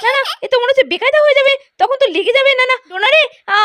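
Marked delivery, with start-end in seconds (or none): 0.0-1.4 laughing through the effort; half-laughing as you tug and fail; laughing strain. Acted. Mother straining to pull her son out, laughing helplessly.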